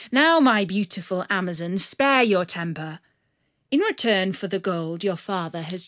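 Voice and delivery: a rogue bowing with mock courtesy; charming outlaw. Bandit charms Marian.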